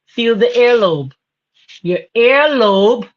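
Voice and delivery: slow, leaning on "earlobe"; teaching emphasis. Shown as a demonstration. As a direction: stress "earlobe" slowly like a teacher. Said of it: "I want you to feel it".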